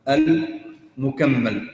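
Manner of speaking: المكمل drawn out slowly and firmly; stretched term. Shown as a demonstration. Teacher drawing out المكمل for students to repeat. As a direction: spell out المكمل slowly, syllable by syllable. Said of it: "students fill in term".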